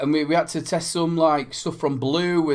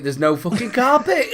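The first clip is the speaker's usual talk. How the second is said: raised pitch, breaking into laughter; mock complaint, laughing; 6 semitones higher than usual. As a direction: imitate a grumble and crack up on it. Retells friend's complaint while cracking up.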